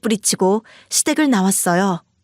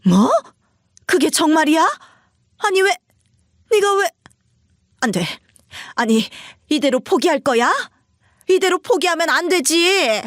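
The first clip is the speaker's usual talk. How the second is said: much higher, stunned mother-in-law; shocked disbelief; 5 semitones higher than usual. Acted. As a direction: reel from the news in disbelief. Mother hears son failed.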